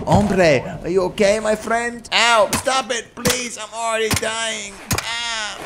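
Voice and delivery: high, pained plea of a dying man. Pretend. Voicing dying man in game.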